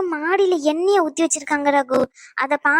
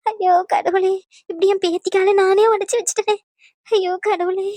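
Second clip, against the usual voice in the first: guilty lament; 3 semitones higher than usual. Acted. Grandparent guilty about injury.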